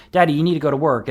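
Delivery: a hint of a little girl's voice; two-year-old daughter. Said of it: "She's like".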